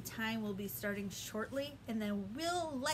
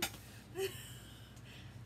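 whimpering laugh; 8 semitones higher, 10 dB quieter than usual. Shown as a demonstration. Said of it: "show me scared face".

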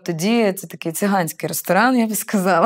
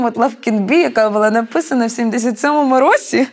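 indignant argument; 4 semitones higher, 3 dB louder than usual. Retold or imitated. She argues his claim is absurd.

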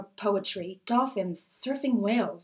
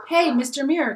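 mild call-out, louder and higher; 5 semitones higher, 7 dB louder than usual. A narrator's reading. Girl hailing the building superintendent in the lobby, lightly calling out. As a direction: hail someone lightly with a raised voice. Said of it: "Letitia called out".

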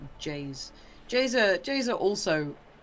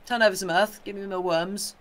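mock bossy robin, first word much louder; a little bird ordering the gardener about; 2 semitones higher, 6 dB louder than usual. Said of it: "They turn up and like".

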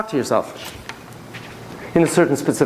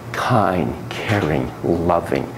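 soft and kind; 8 semitones lower, much slower than usual. Shown as a demonstration. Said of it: "I'm gonna have you talk to her".

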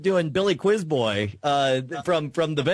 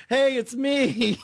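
impersonation; 6 semitones higher, much slower than usual. Retold or imitated. Rooker mimed on The Walking Dead.

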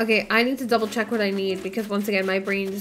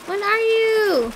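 hopeful question; 10 semitones higher, 3 dB louder, slower than usual. Real, not acted. Waiting to see the catch.

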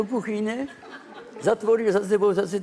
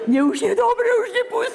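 very high, louder retold plea; hraná úpěnlivá prosba; 12 semitones higher, 3 dB louder than usual. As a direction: squeal it as a mock plea to be let go. (přehrávané prosení vysokým, zvýšeným hlasem)

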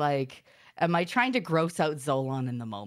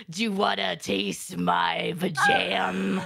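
tag; 3 dB louder, much slower than usual. Retold or imitated. Trolling partner with gross come-on.

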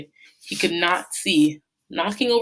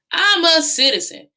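high, loud angry insistence; 12 semitones higher, 5 dB louder than usual. Acted. Bate insisting to Sam, red with anger. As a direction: insist furiously on it. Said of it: "his face glowing red with anger".

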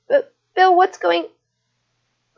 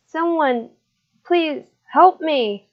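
frightened plea; 5 semitones higher than usual. Acted. Boy chained before a ritual.

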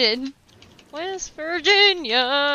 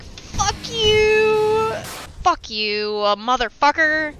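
sudden high mock outburst at the game; cursing the game out in a hammed-up fit; mock game rage; 3 semitones higher than usual. Gamer voicing the game turning on him, mock rage. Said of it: "it's like".

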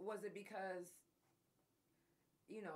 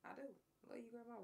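softer, sincere "Love you, Grandma"; 4 semitones higher, 6 dB quieter, much faster than usual. Real, not acted. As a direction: say it softly and mean it this time. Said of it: "No, for real".

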